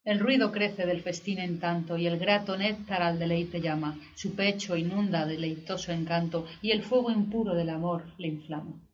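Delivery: measured, solemn verse recital; poetry declamation. Acted.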